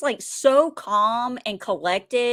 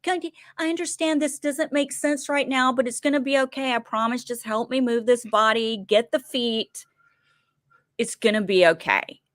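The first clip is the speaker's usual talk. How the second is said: calming voice; 2 semitones higher than usual. Retold or imitated. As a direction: soothe a panicked man gently. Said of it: "he calms him down".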